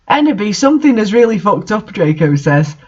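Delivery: dry story read-aloud, mostly even; deadpan fanfic reading. Acted. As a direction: read the fanfic straight-faced, letting it sink itself.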